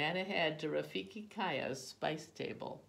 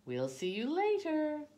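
high, loud farewell; called-out goodbye; 14 semitones higher, 7 dB louder than usual. A narrator's reading. Boy leaving the flour stand, calling goodbye. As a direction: call it out across the market.

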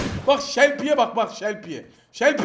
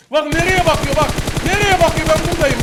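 louder repeat; 5 semitones higher, 5 dB louder than usual. Real, not acted. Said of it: "repeated louder".

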